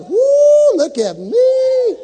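high, loud whoop of delight; excited whoop. Acted. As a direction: shout it like a kid stepping on water. Peter stepping out on water.

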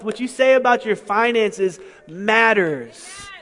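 loud, rising and emphatic sermon drive; full-force preaching. Acted. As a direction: preach it hard, stressing every "say".

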